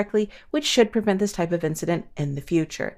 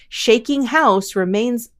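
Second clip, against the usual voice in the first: slow, punchy headline read; news headline voice; 5 semitones higher, 4 dB louder, slower than usual. Shown as a demonstration. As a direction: announce it like a news anchor. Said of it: "let me do my news".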